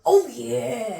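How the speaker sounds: loud sharp yell; shouting. Real, not acted. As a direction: blurt it out at full volume. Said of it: "stop shouting".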